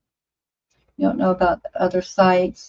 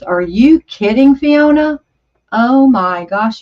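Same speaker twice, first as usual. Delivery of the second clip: shocked disbelief; 4 semitones higher, 4 dB louder than usual. Real, not acted. Shocked at the cigarette price.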